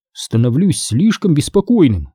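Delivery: usual speaking voice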